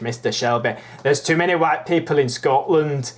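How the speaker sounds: amateur Scottish impersonation; attempted Scottish accent. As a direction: have a rough go at a Scottish accent. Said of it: "I'll try and do a Scottish".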